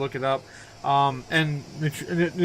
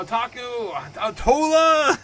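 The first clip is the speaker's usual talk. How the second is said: calling out; 9 semitones higher, 9 dB louder, slower than usual. Real, not acted. Calling out to a viewer.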